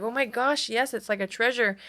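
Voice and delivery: lightly re-enacted thrill; retold delight. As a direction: gush a little, retelling your own reply. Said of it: "And I was like".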